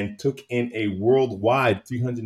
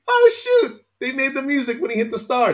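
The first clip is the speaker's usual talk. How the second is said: high excited parent; excited squeal; 5 dB louder than usual. Retold or imitated. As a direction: squeal with delight. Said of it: "parents are like".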